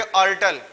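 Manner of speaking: अर्टल said as ar-tal, not kor-tal; correct pronunciation. Shown as a demonstration. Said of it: "इसका pronunciation कॉर्टल नहीं बोलना".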